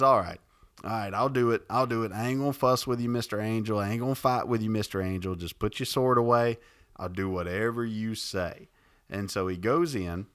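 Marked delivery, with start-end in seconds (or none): 0.0-8.7 loud eager surrender. Retold or imitated. Balaam giving in to the angel.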